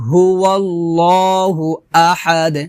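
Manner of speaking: slow, drawn-out recitation; Quran recitation. Shown as a demonstration. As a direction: recite the verse slowly with long held vowels. Model recitation of the verse.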